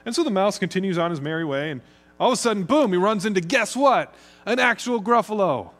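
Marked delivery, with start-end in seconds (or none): 2.2-5.7 higher, louder build to the big reveal; spring the surprise on the listeners; excited storytelling. A narrator's reading. Suspenseful turn in the mouse story.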